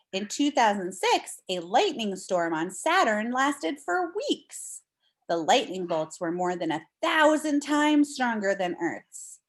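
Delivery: clear, expressive read-aloud voice; reading to children. Acted. Teacher reading a storm book to her class, storybook read-aloud.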